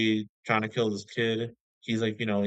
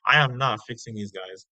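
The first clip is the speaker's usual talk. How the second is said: raised, exasperated no way; fed-up pretend retort; indignant refusal; 3 semitones higher than usual. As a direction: refuse it like it's obvious. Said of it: "if I were him, I'd be like".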